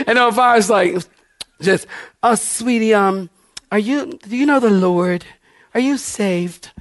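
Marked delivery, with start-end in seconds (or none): 2.2-6.7 lightly voiced concerned church lady; hesitant, careful little questions. Stranger asks a visitor if she's saved, church-lady voice. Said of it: "I don't know why I do that voice".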